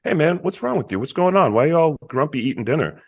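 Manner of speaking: lightly acted friendly concern. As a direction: check in on the kids, all innocent. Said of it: "he comes in concerned".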